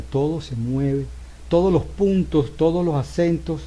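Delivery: todo y todos marcados, acentuados con fuerza; stress on todo. Shown as a demonstration. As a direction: golpea cada todo. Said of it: "este movimiento que estoy haciendo". (acento fuerte en todo)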